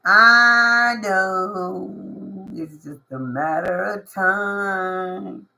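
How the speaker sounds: slow, knowing deep voice. Pretend. The patient listener, sure of their time, in a deep voice. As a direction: drawl it out like you already know. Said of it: "my deep ass voice".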